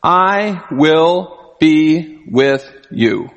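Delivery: very slow, tender reassurance; comforting promise. Retold or imitated. Angel comforting the frightened Gideon, slow and tender. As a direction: let each word sink in gently. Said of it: "he comforted him with this".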